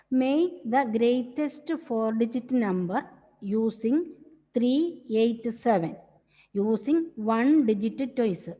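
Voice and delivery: very slow, word by word dictation; teacher dictating a math question to the class. Shown as a demonstration. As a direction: read it out slowly for students to copy.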